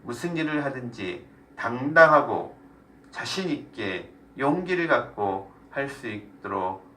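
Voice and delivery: earnest spoken prayer, phrase by phrase; closing prayer. Real, not acted. Teacher prays aloud to God for the group, prayerful. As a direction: lead the group in prayer, leaving room for amens.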